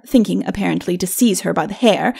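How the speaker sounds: usual speaking voice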